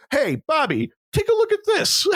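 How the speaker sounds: brash New York cop calling out; New York accent. Retold or imitated. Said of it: "I'm doing a New York accent".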